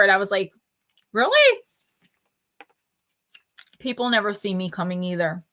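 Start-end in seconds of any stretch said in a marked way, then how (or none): 1.1-1.6 high squeaky disbelieving really; surprised disbelief. Retold or imitated. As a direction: shoot up in pitch, incredulous. Retold own disbelief at reading.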